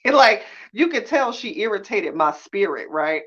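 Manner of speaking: laughing mad. Real, not acted. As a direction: laugh it out while fuming. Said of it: "I'm so mad".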